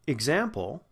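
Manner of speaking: "example" with a light short i to start; unstressed first vowel. Shown as a demonstration. Teacher showing the hidden sound, "example" with weak first "ih". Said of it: "it's not stressed, it's unstressed".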